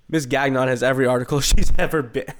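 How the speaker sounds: breaking into laughter mid-line; cracking up while reading; laughing through line. Acted.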